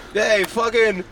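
loud, high East Coast wiseguy; East Coast accent. Pretend. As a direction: bark it out like a Long Island guy. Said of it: "East Coast off right now".

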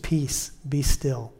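slow, calm and tender, be drawn out and falling; calm quiet command to your own heart; gentle peace be still. Shown as a demonstration. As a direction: soothe a troubled heart. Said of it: "tell our hearts that".

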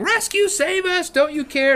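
put-on high, pleading kid shouts; hammed-up desperate cries; imitating kids yelling. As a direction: beg to be saved at the top of your voice. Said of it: "They're yelling".

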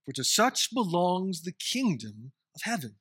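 measured, solemn Bible reading; formal public reading of Matthew; scripture reading. Acted. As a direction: read the passage with reverent weight. Reads the scripture passage aloud.

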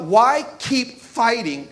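slow, weary; slow, tired question; discouraged mantra. Retold or imitated. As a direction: drag out the giving up. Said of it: "this mentality of".

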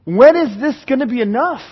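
pleading question with swooping pitch; overwhelmed exasperation. Acted. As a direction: ask it as if at your limit. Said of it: "he's tumbling, and he's going".

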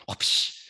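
unvoiced whooshing whip crack; whispered whip sound. Shown as a demonstration. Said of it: "That's the whip sound".

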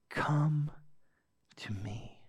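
soft, hushed call to draw near; slow hush with a breath between phrases; gentle invitation. Retold or imitated. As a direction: drop to a near whisper and invite tenderly. Jesus gently inviting the crowd.

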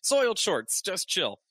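lightly imitated pleading surrender; Deadpool voice. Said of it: "I don't do a good Deadpool voice".

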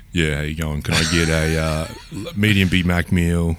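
slightly dropped, self-conscious ordering voice. Retold or imitated. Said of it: "you lower your voice about".

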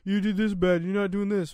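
mock nagging boss. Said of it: "always over here bitching".

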